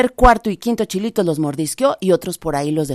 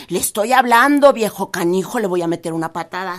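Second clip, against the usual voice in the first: angry rabbit; 4 dB louder than usual. Acted. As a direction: kick threat from a trapped rabbit. Rabbit threatens scarecrow.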